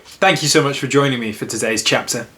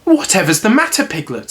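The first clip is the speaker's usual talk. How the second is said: put-on lightly raised boyish voice, kind concern; a boy asking his frightened friend, lightly voiced; Christopher Robin voice; 6 semitones higher than usual. A boy asking a scared Piglet, lightly raised voice. Reading Winnie-the-Pooh aloud.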